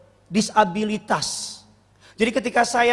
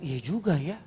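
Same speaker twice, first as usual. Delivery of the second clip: sheepish laugh; 5 semitones lower, 8 dB quieter than usual. Retold or imitated. Conceding to the students, laughing.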